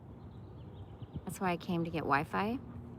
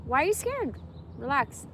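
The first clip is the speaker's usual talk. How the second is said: higher coaxing voice; soothing coo; 6 semitones higher than usual. Real, not acted. Calming the scared little animal, high coax. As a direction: coax the scared creature gently.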